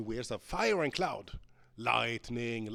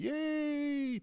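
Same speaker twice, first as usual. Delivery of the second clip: high, drawn-out yay; long, high-pitched cheer; excited cheer. Real, not acted. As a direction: celebrate a small win in the game. Cheers a game result.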